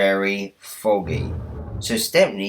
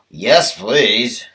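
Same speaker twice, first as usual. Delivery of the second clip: whispered yes; 4 dB louder than usual. Acted. Driver answers foreman.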